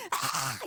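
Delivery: hoarse, voiceless mock scream; short rasped wail, acted out; mock crying scream. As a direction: imitate a crying scream without full voice. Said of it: "소리소리 지르면서 울었어요".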